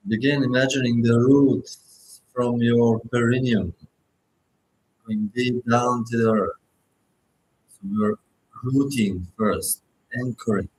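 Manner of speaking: unhurried meditation guide with long pauses; guided meditation. Acted. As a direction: guide listeners gently, phrase by phrase, leaving space to breathe.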